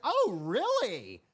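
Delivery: high, drawn-out excited reaction; mock delighted "oh really"; fired-up server. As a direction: stretch it out high, imitating a thrilled server. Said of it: "she was fired up".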